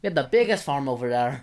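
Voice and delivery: lightly put-on Irish voice; a hint of comic Irish accent. Shown as a demonstration. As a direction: boast in a mock Irish brogue. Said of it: "I'll do my Irish voice".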